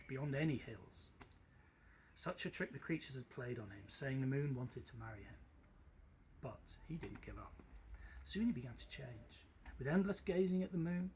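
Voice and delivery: lively storybook reading; story narration. A narrator's reading. Teacher reading a story to the class, animated narration. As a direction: read it like a bedtime tale, big and bright. Reads story aloud to listeners.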